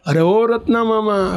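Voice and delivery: drawn-out holler acted at normal volume; calling out. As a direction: stretch it out as if hailing someone from above. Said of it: "બૂમો પાડે".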